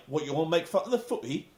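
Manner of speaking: quick, put-on British indignation; rapid mock-British grumble; Douglas Williams. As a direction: imitate an offended English wrestler. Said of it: "And he's like".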